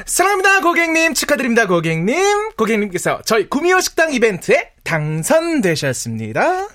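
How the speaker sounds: customer service voice. Acted. Phone call to prize winner.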